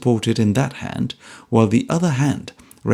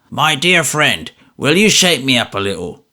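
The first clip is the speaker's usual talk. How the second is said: out of breath. A narrator's reading. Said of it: "gasps the old man".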